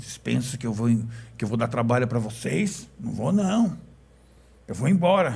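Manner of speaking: thick, deep, gruff growl of a voice. Retelling what a hiding man said, imitating his deep gruff voice. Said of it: "falando com uma voz grossa".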